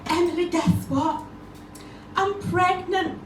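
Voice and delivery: imitating a thrilled friend; excited announcement. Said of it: "she was really excited".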